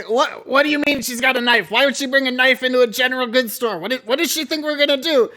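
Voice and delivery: scolding in disbelief; incredulous old man Rictus. Acted. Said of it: "Rictus is gonna say".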